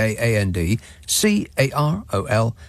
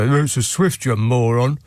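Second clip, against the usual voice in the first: condescending. Retold or imitated. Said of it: "so many people go".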